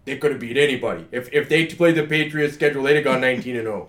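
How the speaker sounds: light mock Chicago sports-fan accent; a hint of a Chicago sports fan. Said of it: "I like how you did a Chicago accent".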